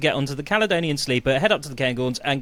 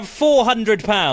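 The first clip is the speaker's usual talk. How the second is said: slow; 5 semitones higher, 3 dB louder, much slower than usual. Real, not acted. Slow repeated guess.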